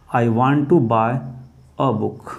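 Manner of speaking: slow dictation. Shown as a demonstration. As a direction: dictate it slowly so students can write. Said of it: "अगला दोस्तों".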